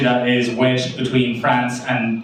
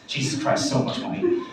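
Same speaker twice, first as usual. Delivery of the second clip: whispered aside; 7 dB quieter than usual. Real, not acted. Aside about costly parenting.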